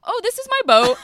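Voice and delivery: hammed-up drunk woman finally getting it; mock dawning realization.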